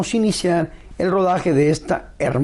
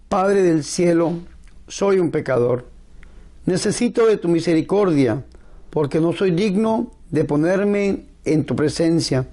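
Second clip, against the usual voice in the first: prayer. Acted. Leads a spoken prayer.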